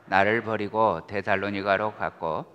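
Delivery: measured, solemn Bible reading; calm liturgical reading voice; scripture reading. Acted. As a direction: read the epistle steadily to the congregation. Reads scripture aloud.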